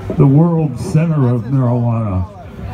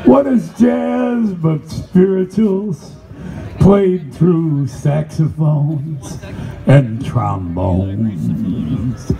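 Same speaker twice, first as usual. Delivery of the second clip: slow, incantatory spoken-word delivery; chant-like poetry reading, stretching key words long; poem recital; slower than usual. Acted. Recites his poem Spiritual.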